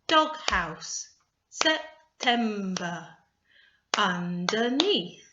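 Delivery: DOGHOUSE, SEPTEMBER, UNDERNEATH loud, a beat per syllable. Shown as a demonstration. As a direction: sound out DOGHOUSE, SEPTEMBER, UNDERNEATH in separate beats. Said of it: "clap at the same time as you say the word".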